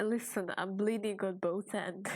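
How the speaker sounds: whispered laugh through pain; giggling while whispering. Real, not acted. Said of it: "I shouldn't be laughing at this".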